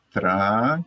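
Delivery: "tra" held long on its own; isolated syllable. Shown as a demonstration. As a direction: stretch out the single syllable "tra". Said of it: "só a primeira sílaba". (sílaba "tra" isolada e alongada)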